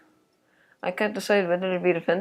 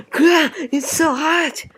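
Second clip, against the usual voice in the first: loud high yelp at the burning heat; pained yelp; 9 semitones higher, 5 dB louder, much slower than usual. Acted. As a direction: cry out as your mouth burns. Burning from hot sauce.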